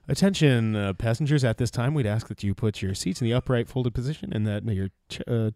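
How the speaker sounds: hammed-up flight attendant; in-flight announcement. Mock in-flight announcement bit.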